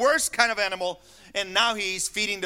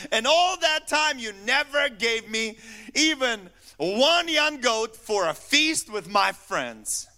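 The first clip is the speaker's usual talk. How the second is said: a hint of a higher, whining older son; mock the complaining son, a touch higher; 3 semitones higher, slower than usual. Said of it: "That's not Junior".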